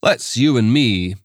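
lightly voiced Scots accent, genial; a Scots magistrate steering him to his office. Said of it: "The accent was thick Scots".

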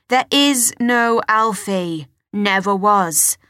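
a hint of a stern father, slow; firm father. Father loses patience.

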